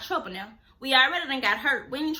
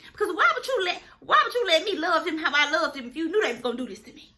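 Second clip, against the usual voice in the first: pleading complaint to God; 3 semitones higher, 3 dB louder than usual. Retold or imitated. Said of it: "I done been up here like, "God".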